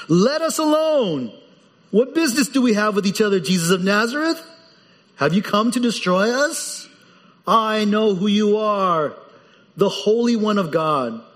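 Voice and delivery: mildly hammed-up possessed man calling out; demon's cry. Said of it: "he cried out with a loud voice".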